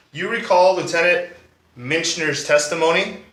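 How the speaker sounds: emphatic, animated courtroom cross-examination; accusing prosecutor. Acted. D A confronts the defendant over the missing gun, emphatic and accusing. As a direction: drive the accusation home to the jury.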